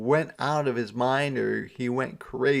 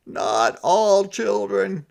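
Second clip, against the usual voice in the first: high, loud put-on Santa voice; a sighing, higher Santa; 10 semitones higher, 7 dB louder, slower than usual. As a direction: play him sulky and fed up.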